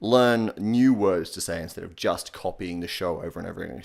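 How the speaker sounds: usual speaking voice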